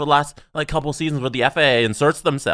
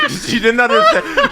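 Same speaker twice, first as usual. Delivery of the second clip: laughing; 3 dB louder than usual. Real, not acted. Laughing retelling the memory.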